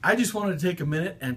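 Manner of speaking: put-on high, bright greeting for kids; puppet-style hello; squeaky puppet voice. Greeting children in a video.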